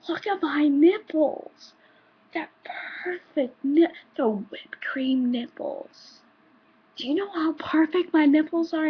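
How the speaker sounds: high, loud, gloating show-off voice; mock bragging customer; mock customer boast. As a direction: ham up a proud creep showing off. Customer boasting about his nipples.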